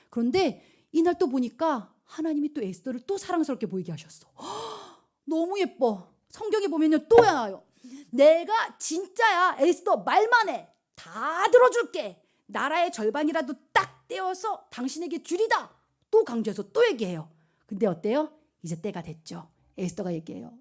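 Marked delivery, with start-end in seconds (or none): 4.4-6.1 gasping, high, drawn-out awe; acted admiration. King sees lovely Esther, hammed-up gasping admiration. 8.1-15.7 high, loud, slow royal pledge; grand promise. Acted. King promises Esther half the kingdom, hammed-up grand pledge.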